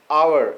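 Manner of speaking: आवर said with the initial H silent. Shown as a demonstration. Teacher demonstrates the word for learners, आवर with silent H. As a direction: begin आवर on the vowel, no H sound. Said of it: "लेकिन एच silent है".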